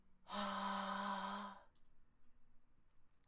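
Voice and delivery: airy ha; steady breathy ha; breathy ha note. Shown as a demonstration. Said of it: "Why don't you try it out?".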